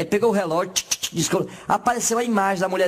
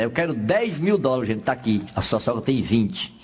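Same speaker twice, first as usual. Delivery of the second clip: low genie voice; 8 semitones lower, slower than usual. Retold or imitated.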